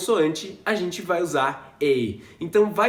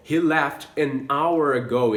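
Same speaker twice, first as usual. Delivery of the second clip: slow demo; 3 semitones lower, slower than usual. Shown as a demonstration. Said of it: "se eu vou falar".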